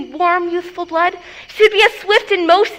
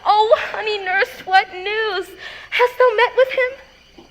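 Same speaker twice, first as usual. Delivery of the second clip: eager; 4 semitones higher than usual. Acted. Eager greeting of the nurse.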